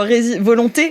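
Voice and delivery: ordinary talk, nothing marked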